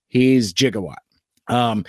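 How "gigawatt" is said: "Gigawatt" opening with a j sound; movie pronunciation, soft g. Shown as a demonstration. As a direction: say "Gigawatt" with g as in gem. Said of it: "it's a quote from the movie".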